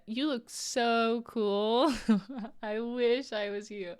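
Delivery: slow, drawn-out mocking sarcasm; sarcastic quote. Quoting Shania's teasing chat message, slow sarcastic drawl. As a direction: stretch each word out so it sounds insincere. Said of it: "knowing Shania".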